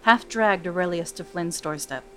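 measured storytelling read; story narration. A narrator's reading. Narrator reading Brianna's backstory to podcast listeners, storytelling. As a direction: draw listeners into the tale. Reads fantasy story aloud.

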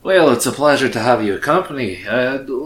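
badly faked Scottish turning Russian; accent slipping into Russian. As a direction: let the put-on accent drift towards Russian. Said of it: "He turned Russian".

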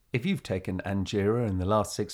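a hint of the fine-print announcer; lightly voiced ad disclaimer. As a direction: rattle off the small print. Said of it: "this voice appears underneath, which goes".

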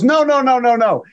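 quick high insistent no's, imitating a friend; eager protest. Imitating a friend quickly protesting he meant no insult, pitched high.

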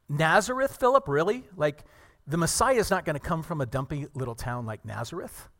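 loud, mocking disbelief; scoffing. Nathanael scoffs at Philip's news, loud mocking disbelief. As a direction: sneer at the little town.

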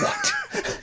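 very high, squeaked bafflement; mock disbelief. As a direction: squeal it as if utterly thrown. Baffled reaction to pig nose reveal.

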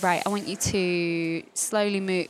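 slow, soothing guide voice, lightly done; calm instructor voice. Retold or imitated. Choreographer leading a warm-up to dancers, lightly imitated slow soothing voice. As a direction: talk them slowly into movement. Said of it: "She literally is like".

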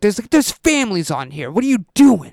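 mock scolding, rising to high incredulity; hammed-up outraged cop; imitating the cop. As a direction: build to a high, exasperated question. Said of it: "That's how he talked?".

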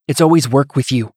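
tight, bitter near-hiss. Acted. Wife accusing her husband at the forge, bitter near-hiss. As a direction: spit it at him, barely held back. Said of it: "Ilya nearly hissed".

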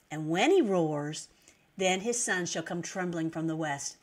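slow, measured Bible reading; scripture reading. Acted. Preacher reading the Lord's words to listeners, slow and solemn. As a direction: read the verses out slowly and deliberately.

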